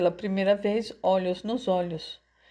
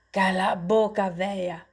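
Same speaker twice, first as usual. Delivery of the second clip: angry order in a street-tough voice; mildly furious rebuke; scolding thug. A narrator's reading. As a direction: tell the old woman off roughly. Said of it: "ralhou ele".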